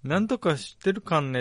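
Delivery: light Tochigi かんね ending; a hint of a Tochigi local; Tochigi dialect. Quoting Tochigi speech to a cohost, mild Tochigi accent. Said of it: "って言うよね".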